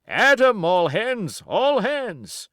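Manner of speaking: thundering roar. A narrator's reading. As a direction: bellow the order to attack like thunder. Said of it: "he roared in a voice of thunder".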